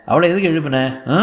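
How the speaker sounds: good-humoured elder scolding; jovial husband chiding. Acted. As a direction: tease the shy young man as a silly boy. Husband chides guest jovially.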